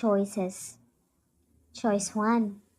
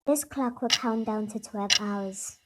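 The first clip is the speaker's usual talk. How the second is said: firm; 3 dB louder than usual. Acted. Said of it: "Bianca was very firm".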